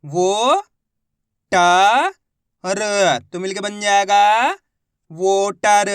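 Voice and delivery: loud, slow sounding out of वो ट र; syllable by syllable blending. Shown as a demonstration. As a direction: pause between वो, ट, र then say वोटर. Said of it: "अब आगे देखिए".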